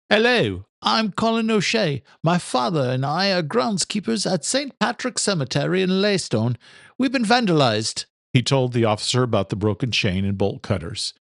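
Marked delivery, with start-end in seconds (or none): 0.1-8.0 put-on higher, polite young man reporting; earnest young groundskeeper calling the police; higher young man, courteous on a call; young son on the phone. Son's voice in story.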